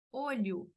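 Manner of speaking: "olho" ending in an oo sound, "OH-lyoo"; final O as U. Shown as a demonstration. Teacher shows Brazilian habit, "olho" ending in U. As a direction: turn the last vowel of "olho" into U. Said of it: "pronunciar con sonido de U".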